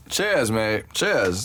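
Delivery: rough attempt at British accent. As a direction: have a stab at sounding British. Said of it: "a U K accent".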